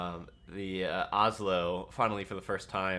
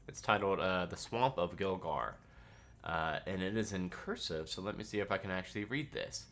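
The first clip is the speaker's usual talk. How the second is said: ordinary talk, nothing marked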